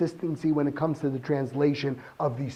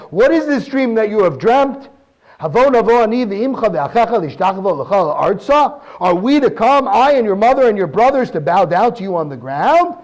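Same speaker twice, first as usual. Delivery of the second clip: a father's stern scolding, slightly louder; 3 semitones higher, 5 dB louder than usual. Retold or imitated. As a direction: scold him like a disapproving father. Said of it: "his father scolds him".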